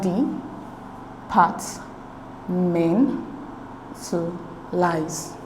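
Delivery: "D, part, men, to lies" in separate beats with long pauses; syllable by syllable. Shown as a demonstration. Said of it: "divide the word up into syllables".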